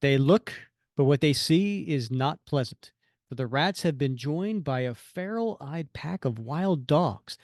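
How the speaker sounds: measured, theatrical storytelling read; dramatic comic-book narration. Acted. Host reads the villain's entrance to co-host, dramatic narration. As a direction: narrate with a touch of menace, punching key words.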